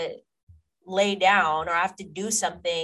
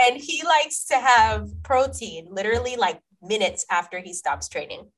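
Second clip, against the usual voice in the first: hyped up; 6 semitones higher, 6 dB louder than usual. Real, not acted. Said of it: "You're getting me hyped up".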